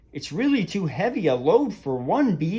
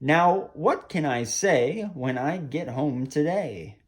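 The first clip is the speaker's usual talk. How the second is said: lilting rhymed storytime reading; animated storyteller with expressive rises and falls; children's story narration. A narrator's reading. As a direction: read a verse picture book to children. Reads a rhyming picture book.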